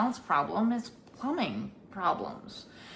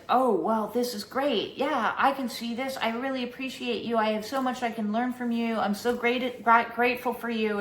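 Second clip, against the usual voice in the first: imitating her bright, higher gushing thanks; gushing praise; 5 semitones higher than usual. Neighbor gushing gratitude after the business talk, mock sweet. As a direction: pile on the flattery, pitched up. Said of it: "And she's like".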